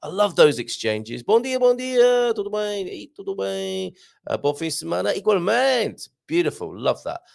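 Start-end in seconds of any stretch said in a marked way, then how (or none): 1.2-6.1 mock neighbourly calling. Host acts a listener calling to his neighbour, lightly shouted. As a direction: sing out greetings to the neighbour. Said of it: "Shouted that across the road".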